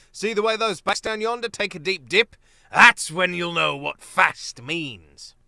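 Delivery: teasing with relish; hearty captain. Acted. Captain teases mole.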